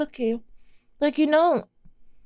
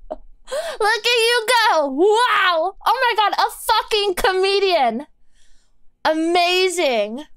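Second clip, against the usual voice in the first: higher, mock-impressed sarcasm; sarcastic praise; 5 semitones higher than usual. Streamer mocking chat's jokes with fake awe. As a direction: fake awe, laying it on thick.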